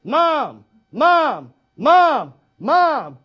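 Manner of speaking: loud, nagging cartoon-kid calls; whiny Stewie. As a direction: pester mom over and over like a cartoon kid. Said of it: "I love little Stewie".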